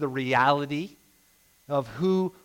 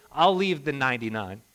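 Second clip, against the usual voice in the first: God pleading tenderly; 2 semitones higher than usual. Pretend. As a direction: voice God reaching out to the hurting. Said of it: "God is like this".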